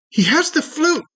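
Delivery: very high little exclamation; tiny creature's voice. Acted. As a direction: pipe up in a tiny, high-pitched voice. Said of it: "you hear a secondary voice from the hole".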